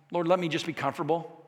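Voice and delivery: soft, small plea; meek prayer. Pretend. Lone fan at the Cubs game praying, meek. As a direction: drop to a timid little murmur. Mocking our timid prayers.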